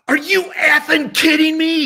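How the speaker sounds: high-pitched, loud mock shout in disbelief; imitating a shout. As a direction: belt it out like an old ballplayer who can't believe it. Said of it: "And he goes".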